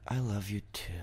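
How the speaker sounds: very soft, trailing off like an ellipsis; trailing dot-dot-dot. Shown as a demonstration. Reading girlfriend's text with dot dot dot, softly trailing. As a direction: let it hang quietly, unfinished. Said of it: "with the dot, dot, dot, it's like".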